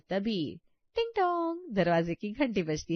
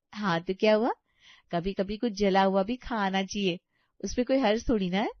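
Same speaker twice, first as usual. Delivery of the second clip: louder, fast careless retort; defiant bahu; 4 dB louder than usual. Acted. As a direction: shrug it off with cheek. Neha defends burnt halwa. (बेपरवाह, ढीठ जवाब)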